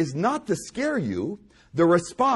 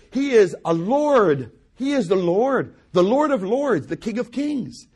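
rising, louder acclamation of the Lord; preacher exalting Christ, higher and louder; building exaltation; 5 semitones higher, 4 dB louder than usual. Real, not acted. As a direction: build it up title by title.

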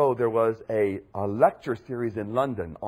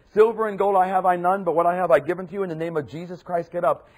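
commanding call; 5 semitones higher, 7 dB louder, faster than usual. Acted. Peter commands the crippled man.

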